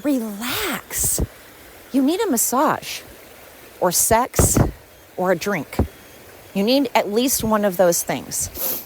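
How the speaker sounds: mock soothing. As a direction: coo at them like they need calming down. Telling angry people to relax.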